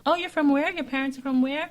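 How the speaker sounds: high, loud nosy questioning; mock astonished curiosity. Imitating people who find out her background, mock astonishment. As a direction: play someone amazed by your origins.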